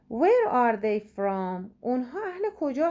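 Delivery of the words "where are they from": very slow, clear question; slow model reading. Shown as a demonstration. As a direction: read it out word by word. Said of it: "teacher reads question slowly". (خیلی آهسته و شمرده بپرس)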